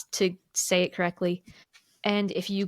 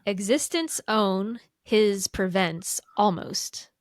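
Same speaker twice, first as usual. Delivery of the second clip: slow, word by word reversed; backwards speech; slower than usual. Shown as a demonstration. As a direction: read the words in reverse order, slowly. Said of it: "read the question backwards".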